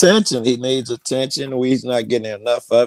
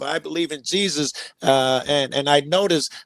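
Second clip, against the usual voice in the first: hammed-up self-pity, cracking up high; whiny parody of the guest, voice leaping high; mock whining; 4 semitones higher than usual. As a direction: mimic her as a lonely martyr. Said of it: "You just said that".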